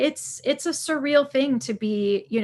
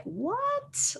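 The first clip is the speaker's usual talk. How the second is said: stunned what; 14 semitones higher, 6 dB quieter than usual. Retold or imitated. Disbelief at sudden fame.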